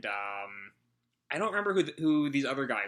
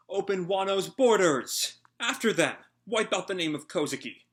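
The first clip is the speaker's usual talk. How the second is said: shouted orders; 7 semitones higher, 6 dB louder than usual. Acted. Villain ordering his men, loud commanding shout. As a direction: bellow the orders at the troops.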